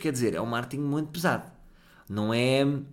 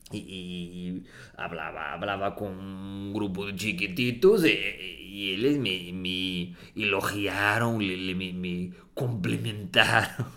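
put-on softer forced Spanish accent; 4 semitones lower, slower than usual. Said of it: "coloco forzadamente un acento".

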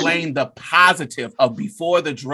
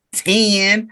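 feisty mock; 2 semitones higher than usual. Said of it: "saying it all feisty".

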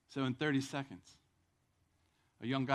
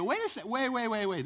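higher, louder double-take; sudden doubt; 7 semitones higher, 7 dB louder than usual. Retold or imitated. Crowd suddenly doubting Jesus, loud and high. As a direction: stop short in disbelief.

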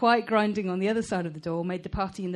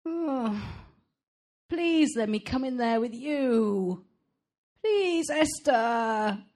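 high, slow begging whine; puppyish whine; 4 semitones higher, much slower than usual. A narrator's reading. Black Pat pleading with Esther, puppyish whine. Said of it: "He let out his puppyish whine again".

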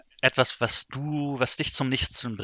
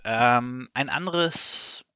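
awkward stalling transition; 2 semitones higher, much slower than usual. Real, not acted. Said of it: "Überleitung der Meister".

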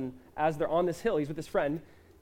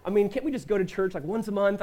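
mock whiny doubter; 5 semitones higher than usual.

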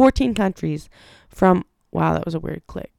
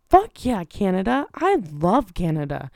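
excited cheer. Real, not acted. Podcaster cheering for listeners in Canada, excited.

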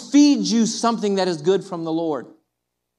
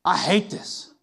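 wallowing self-pity; 3 semitones lower than usual. Pretend. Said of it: "and feel like".

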